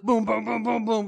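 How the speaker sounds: rapid-fire booms; imitated punch flurry. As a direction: boom out a string of quick punches.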